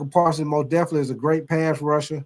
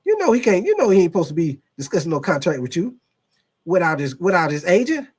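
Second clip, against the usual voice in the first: Stephen A. Smith impression; 3 semitones higher, 3 dB louder than usual. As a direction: lecture him like an outraged TV host. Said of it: "so here goes Stephen A. Smith".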